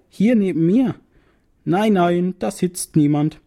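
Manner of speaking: rising, urgent insisting; insistent. Acted. Narrator and psychiatrist arguing, insistent. Argument over invisible kangaroo.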